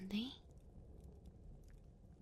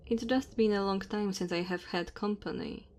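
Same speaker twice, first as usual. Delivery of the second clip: lightly voiced dragon woman, louder, measured delivery; 10 dB louder than usual. Dragon woman to her cold guest in the cave, gently apologetic. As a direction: play an apologetic dragon host at speaking volume.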